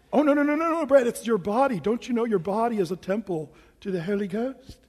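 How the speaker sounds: lightly put-on pious British scolding; mock sanctimony with a touch of British accent. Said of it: "talk in British when I try to be holier than thou".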